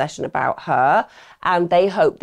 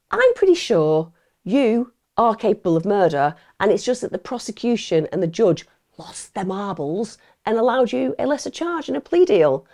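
pretend detective accusing; 4 semitones higher than usual. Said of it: "been like".

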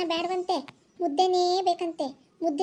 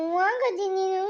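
put-on crying child. Grandson sulking at grandmother.

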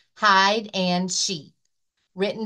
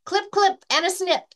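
shearing sounds; 11 semitones higher than usual. Acted.

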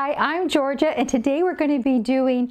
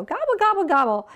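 mock turkey gobble; 4 semitones higher than usual. Shown as a demonstration. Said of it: "we like to go".

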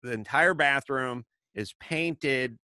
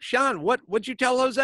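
1 exasperated; 10 semitones higher, 3 dB louder than usual. Retold or imitated. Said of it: "I was like".

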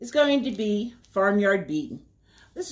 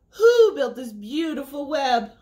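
owl voice; 4 semitones higher, 3 dB louder than usual. Acted. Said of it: "cried the owl".

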